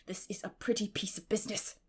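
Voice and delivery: breathy whispered dismay; a stunned half-whisper; hushed exclamation. Acted. Marilla to Matthew, stunned, hushed exclamation. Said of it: "ejaculated Marilla".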